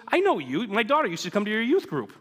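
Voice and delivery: put-on delighted to place an old acquaintance; retold, lightly voiced excited man; excited recognition.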